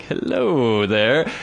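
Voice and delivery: slow, drawn-out mock hello; smitten dog greeting. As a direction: stretch the greeting out creepily long.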